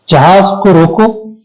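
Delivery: "روکو" closes the first phrase, held before a break; pause after روکو. Shown as a demonstration. Teacher placing the punctuation mark, pause after "روکو". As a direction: say "جہاز کو روکو" as its own unit, then stop. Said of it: "اس کے بعد ہم نے وقفہ کی علامت لگا دی".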